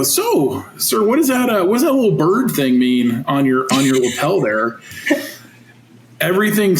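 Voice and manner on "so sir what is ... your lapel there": put-on naive kid asking, pitch jumping up; lightly voiced clueless young coach; innocent question to the colonel. Young coach asks colonel about his lapel, innocently naive. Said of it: "and I go".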